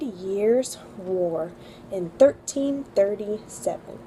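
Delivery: slow, careful dictation pace; slow recitation. Shown as a demonstration. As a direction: read it slowly for kids to repeat. Reads history sentence for memorizing.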